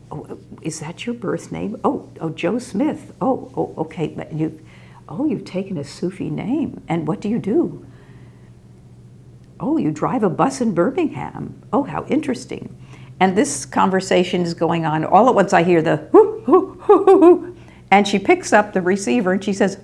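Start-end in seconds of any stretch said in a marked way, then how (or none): 0.1-12.8 lightly voiced, fluttery and interested; chatty old lady. Kitty's chat voiced. 15.8-17.6 high, loud whooping imitation of a phone sound; much higher and louder whoo; imitated phone hoot.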